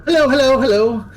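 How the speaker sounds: high, loud cheery greeting of a floating skull; squeaky eager skull calling hello; Barnabas the flaming skull. Acted. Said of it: "He goes".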